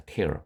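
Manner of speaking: tear를 '테어'로 발음; 찢다 뜻의 'tear'는 '테어'; tear pronounced tear. Shown as a demonstration. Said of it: "발음 조심하세요". ('tear'를 '테어'로 천천히 또렷하게)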